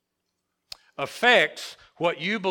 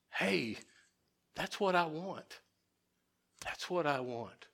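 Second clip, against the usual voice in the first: soft eager convert; 10 dB quieter than usual. Retold or imitated. Convert voiced, much softer.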